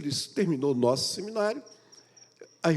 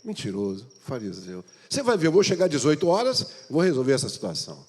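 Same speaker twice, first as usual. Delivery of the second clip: scorned wife swearing revenge; wife's angry vow. Retold or imitated. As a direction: threaten him, fired up.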